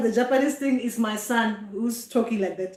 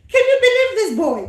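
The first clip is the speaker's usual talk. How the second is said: fast, higher and louder, laughing; laughing disbelief; 10 semitones higher, 6 dB louder, faster than usual. Real, not acted. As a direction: burst out in amused disbelief. Disbelief at son's prank.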